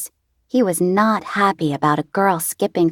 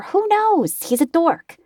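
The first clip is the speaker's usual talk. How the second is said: dismissive; 11 semitones higher than usual. Acted. Libby dismissive.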